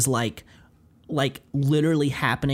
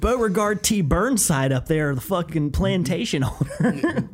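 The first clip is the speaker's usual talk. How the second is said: mock Southern drawl; 2 semitones higher than usual. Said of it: "I'm like".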